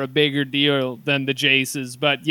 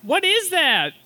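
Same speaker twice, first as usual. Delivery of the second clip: weird lizard voice; 12 semitones higher than usual. Retold or imitated. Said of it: "a weird lizard voice he keeps doing".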